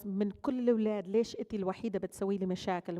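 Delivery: rapid scolding mother. Retold or imitated. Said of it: "And she goes".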